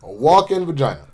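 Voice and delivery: lightly imitated presidential cadence; Barack. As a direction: swoop on "literally", pause like a politician. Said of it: "I did not mean to go Barack".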